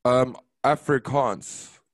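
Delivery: Afrikaans said slowly with a clear final s sound, ahf-ree-KAHNS; careful slow Afrikaans, stressing the last syllable; correct pronunciation. Shown as a demonstration. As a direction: slowly spell out the sound of Afrikaans, ending on a crisp s.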